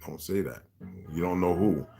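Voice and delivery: hushed warning. Retold or imitated. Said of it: "he's like".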